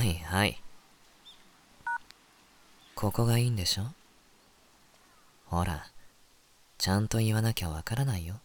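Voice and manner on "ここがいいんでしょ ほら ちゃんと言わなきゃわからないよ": seductive teasing voice. Shown as a demonstration. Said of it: "次、お前な。".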